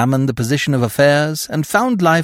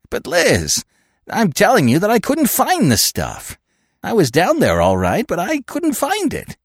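pleading; 8 semitones higher than usual. Acted. Ed pleads with Liz.

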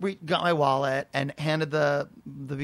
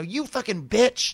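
drawn-out mock insult, pitched up; really fighting; 5 semitones higher, 3 dB louder, slower than usual. Woman turning on another customer, slow high mock fury. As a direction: imitate a woman spitting an insult, slowly. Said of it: "she's really, really fighting".

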